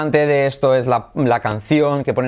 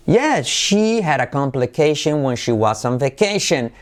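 raised "Yes", then flowing fall to "vacation"; intonation demo. Shown as a demonstration. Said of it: "Entonación".

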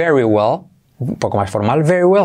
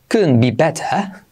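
English couldn't with a clear d; British dropped r on better; British accent; slower than usual. Shown as a demonstration. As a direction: demonstrate England's pronunciation, unhurried. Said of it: "creo que lo dicen así en Inglaterra".

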